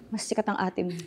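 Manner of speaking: soft deadpan mother; blunt mother. Retold or imitated. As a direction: deliver the verdict quietly. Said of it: "mother's blunt reply".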